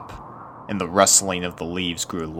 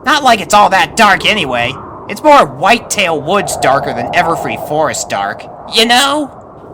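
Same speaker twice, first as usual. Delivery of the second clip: high, louder colt voice, shrugging it off; reassuring young colt; 11 semitones higher, 10 dB louder than usual. Acted. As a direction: brush off the darkness for a friend. Snips reassuring friend.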